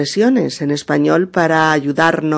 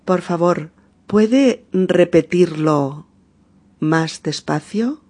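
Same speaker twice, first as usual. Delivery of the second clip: slowed, carefully articulated request; patient slow teacher demo; slow model phrase. Shown as a demonstration. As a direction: lay each word out slowly for the learner. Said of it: "podemos decir".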